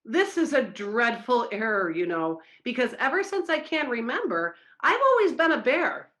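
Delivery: the bear pleads his case to the boss; pleading. Acted. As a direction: beg them to understand. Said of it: "The bear pleaded".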